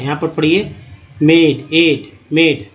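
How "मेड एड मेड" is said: "मेड" with a long ay vowel; long A sound. Shown as a demonstration. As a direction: model "मेड, एड, मेड" piece by piece. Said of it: "तो सही उच्चारण हो रहा है".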